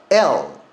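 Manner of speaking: L said with the tongue tip striking behind the upper teeth; crisp L sound, tongue tapping the ridge; L demo. Shown as a demonstration. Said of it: "윗니 뒤에를 강하게 딱 치고".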